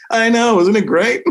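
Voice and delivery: high, laughing delight; gleeful laughing reply. Retold or imitated. Answering the mean friend high and laughing with glee. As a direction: chuckle it out, thrilled.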